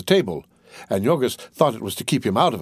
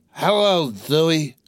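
cried out; 5 semitones higher, slower than usual. A narrator's reading. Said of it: "cried his master".

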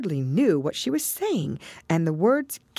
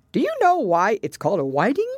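high creature quiz question; Gryphon; 7 semitones higher, 5 dB louder than usual. Acted. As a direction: pose the riddle in a high, strong voice.

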